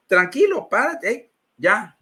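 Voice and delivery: imitated priest telling someone to stop; cutting someone short. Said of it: "el sacerdote me para en seco".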